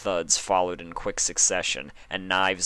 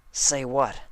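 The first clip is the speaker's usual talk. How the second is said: confused question; 7 semitones higher, 3 dB louder than usual. Acted. Dash confused.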